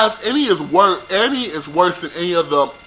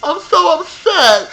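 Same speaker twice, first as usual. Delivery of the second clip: mock upset; 10 semitones higher, slower than usual. Mock victim continues.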